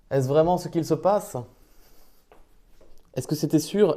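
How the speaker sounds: put-on loud, stagey disbelief in old-fashioned French; theatrical gasping wonder; mock astonishment. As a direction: act stunned that it's real. Mock astonishment at going live.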